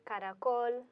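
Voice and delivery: caracol with the stress on COL; last-syllable stress. Shown as a demonstration. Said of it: "emphasis is going to go on the last syllable".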